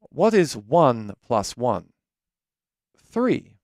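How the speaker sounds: slow, deliberate British-accented quiz; mock-authoritative British accent, spaced out. Shown as a demonstration. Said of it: "I said that with a British accent".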